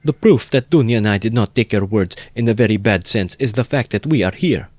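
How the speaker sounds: with dignity. Acted. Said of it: "declared with dignity".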